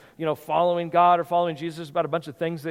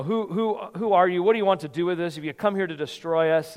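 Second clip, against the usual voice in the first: retold yelling. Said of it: "this guy starts yelling out".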